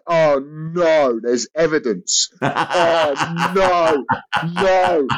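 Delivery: lightly voiced dismayed royal; a mild mock oh no; Prince Andrew. Prince Andrew looking at the photo, light mock dismay. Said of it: "the same way Prince Andrew".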